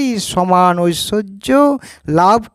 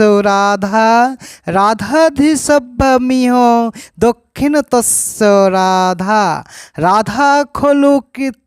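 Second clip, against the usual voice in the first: drawn-out, sustained Sanskrit verse recitation; 3 semitones higher, slower than usual. Acted. Devotee reciting a Sanskrit verse on Radha to listeners, measured verse recitation. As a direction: recite it like scripture, stretching the line endings.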